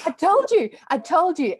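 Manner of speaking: high, loud and triumphant; gleeful I-told-you-so; excited vindication. Real, not acted. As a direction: blurt it out, voice jumping up. Reacting to praise, vindicated.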